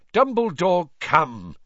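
high, loud reproach; angry. A narrator's reading. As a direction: cut in with irritation. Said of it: "said Fudge angrily".

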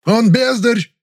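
very high, loud outburst; shrieking insult; flaring up. Acted. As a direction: explode in fury. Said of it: "взвился Завадский".

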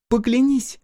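высоко и твёрдо, требуя; потребовать всерьёз; требовательно. A narrator's reading. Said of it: "внезапно потребовала погорелица". (погорелица вдруг всерьёз требует клятвы у Кудыки)

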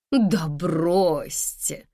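dismissive. A narrator's reading. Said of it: "небрежно махнула рукой".

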